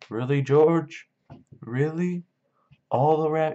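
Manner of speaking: high, slow, wide-eyed wonder; childlike excitement. Retold or imitated. Lenny hears George's rabbit promise, in high mock childlike excitement.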